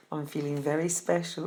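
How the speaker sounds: breathy secret whisper to the camera; a mock-proud little whisper. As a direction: confide it in a hushed whisper.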